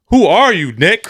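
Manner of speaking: sharp high who are you; incredulous. Real, not acted. Friend mocking the broker Nick, incredulous. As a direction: call him out in disbelief.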